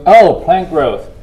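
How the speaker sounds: muffled behind a face mask; talking through a mask. Real, not acted. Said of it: "with the mask on".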